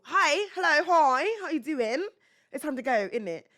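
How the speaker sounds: high, playful mock British accent; singsong British greeting to win the kids' attention; funny British accent. Shown as a demonstration. Nanny getting kids to listen, funny British accent. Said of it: "I changed up my voice. I did a funny voice".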